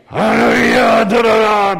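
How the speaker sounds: loud, high, slow fearsome proclamation; loud fearsome preacher reading; thundering pulpit voice. Shown as a demonstration. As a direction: boom it from the pulpit to scare. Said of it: "분위기부터 막 무시무시하게 나옵니다".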